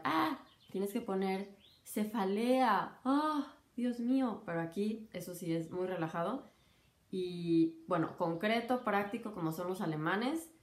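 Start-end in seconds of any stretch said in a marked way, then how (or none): 0.0-4.4 a lightly voiced scandalized senior doctor, slow; mock fussy doctor. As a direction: tease the pedantic supervisor. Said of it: "dirían". (burla ligera de médico quisquilloso)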